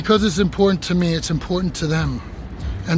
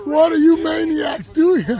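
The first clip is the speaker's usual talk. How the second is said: shouted greeting; 9 semitones higher, 3 dB louder than usual. Real, not acted. Calling out to arriving friends.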